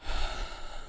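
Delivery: long, soft calming breath; slow breath out to calm down; deep breath. A narrator's reading. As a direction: breathe deeply to rein in anger. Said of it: "takes a deep breath to calm his anger".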